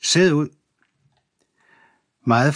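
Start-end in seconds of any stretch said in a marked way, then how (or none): 0.0-0.5 higher-pitched jumpmaster's call; shouted command. A narrator's reading. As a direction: call out the jump order. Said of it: "og råbte". (råbt kommando)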